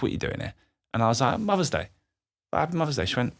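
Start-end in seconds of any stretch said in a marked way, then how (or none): 0.0-0.5 hushed retelling. Retold or imitated. Mum's cold greeting retold again. 1.4-3.0 higher, bright hopeful "Happy Mother's Day"; mock cheerful greeting. Hopeful son greeting his mum.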